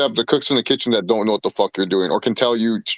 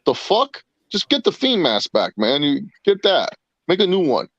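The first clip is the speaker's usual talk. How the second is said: higher, fed-up rant; exasperated pleading; 5 semitones higher than usual. Retold or imitated. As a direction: scold him like an annoyed friend. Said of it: "And I'll be like".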